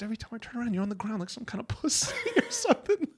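mocking insult. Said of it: "he goes, he goes".

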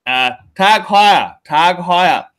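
excitable mock-Indian sales pitch; Indian accent. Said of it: "in your best Indian accent".

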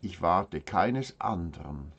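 measured verse reading with long pauses between lines; solemn poem recitation. Acted. Reading brethren a poem from mother, measured solemn recitation. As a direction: recite it as a devout prayer in verse, line by line.

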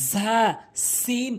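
strong buzzing ঝা, long sharp সিন; correct sibilants. Shown as a demonstration. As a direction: hiss and stretch ঝা, সিন as Arabic letters. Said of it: "একই নিয়মে তিনটি হরফ".

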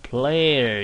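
player drawn out slowly to show the long vowel; slow demo. Shown as a demonstration. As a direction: stretch player for the class. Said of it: "念起来是长的". (放慢念player)

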